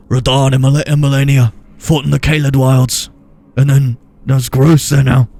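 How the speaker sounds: loud, announcing NPC voice; Gideon impression. Gamer quoting a game NPC to viewers, loud. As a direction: boom it like a game character. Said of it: "Gideon said".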